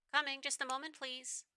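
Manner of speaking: light, high door-answering voice. Acted.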